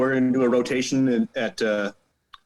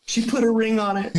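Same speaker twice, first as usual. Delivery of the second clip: high mock voice; 11 semitones higher than usual. Teasing congratulations.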